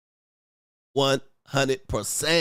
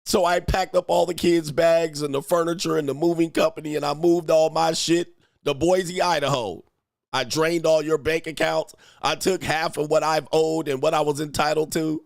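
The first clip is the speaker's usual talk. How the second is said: lightly voiced wife, a little higher; aggrieved wife; 3 semitones higher than usual. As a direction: list what you took, as the wronged wife. Wife's letter continues, acted.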